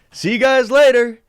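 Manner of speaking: high, loud breezy send-off; cheeky goodbye. Retold or imitated. Leaving the principal's office, cheeky breezy farewell. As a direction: wave them off like it's nothing. Walking out on the staff.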